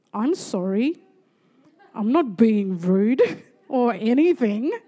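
drawn-out, insincere apology; slow it down with exaggerated, rude innocence; mock sarcastic. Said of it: "you're being so rude right now".

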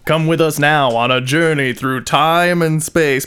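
lightly voiced dramatic show narrator; Mighty Boosh intro voice. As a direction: intone it like a grand TV intro. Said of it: "I'm talking about Mighty Boosh".

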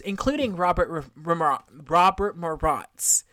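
stumbling over the R in "Robert R-, Ramar-, Robert Morat's"; struggling with R's. Real, not acted. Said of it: "So I can't say my R's".

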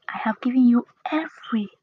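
EVERY given weight at the end; stress on EVERY. Shown as a demonstration. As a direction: build to "every" and lean on it. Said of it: "emphasis on every".

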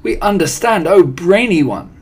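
high, loud adoring chorus; fawning audience cry. A narrator's reading. Witch audience answering their brainy leader, crying out adoringly. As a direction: gush up at the leader. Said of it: "cried the audience".

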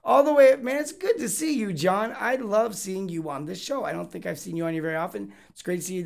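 loud high hyped-up greeting; excited greeting. Retold or imitated. Reading a fan's hello aloud, loud and high. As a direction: shout a big hello to an old friend. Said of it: "He says".

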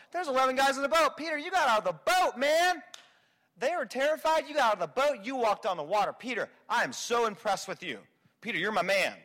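lightly voiced, high praise of Peter; impressed Jesus. Imagined Jesus praising Peter, lightly voiced high gush. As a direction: gush over Peter, a touch mock. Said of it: "expect Jesus to go".

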